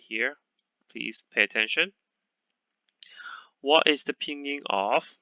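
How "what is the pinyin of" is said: whisper. Acted. Whispered question.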